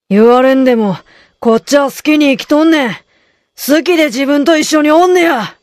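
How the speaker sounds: Kansai dialect. Shown as a demonstration. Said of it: "じゃあロン、出番よ".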